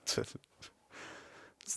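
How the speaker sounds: very slow, eerie delivery; slow creepy voice. Pretend. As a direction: drag it out like a nightmare. Joining the creepy voice bit.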